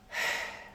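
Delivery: shallow sighing breath into the chest; high chest breath. Shown as a demonstration. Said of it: "And just breathe high".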